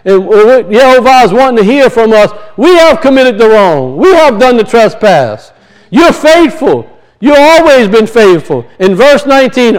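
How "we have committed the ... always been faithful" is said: raised, emphatic scripture prayer; fervent prayer. Acted. Preacher praying Daniel's confession to God, fervent. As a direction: confess it aloud with conviction.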